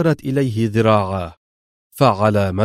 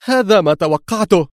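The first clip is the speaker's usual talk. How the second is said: higher, agitated mutter of recognition; excited murmur; 8 semitones higher than usual. Acted. Laura answering Mr X's call, keyed-up murmur. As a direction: she knew it would be him, keyed up. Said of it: "غمغمت في انفعال".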